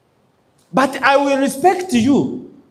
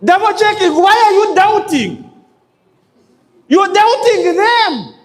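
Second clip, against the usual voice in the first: incredulous challenge; 8 semitones higher than usual. Real, not acted. Speaker challenges callers who double check.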